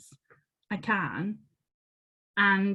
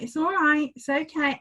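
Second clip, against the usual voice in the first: higher, gentle coaxing; soothing; 6 semitones higher than usual. Retold or imitated. Shaking hands, soothing the spider, gentle coo. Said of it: "I'm talking to a spider".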